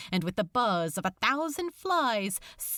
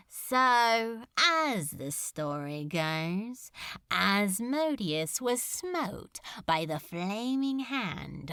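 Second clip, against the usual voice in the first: languid; 3 semitones lower than usual. Acted. Demon lord lazily needling Crowley about the angel, languid. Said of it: "languidly now, all fire gone".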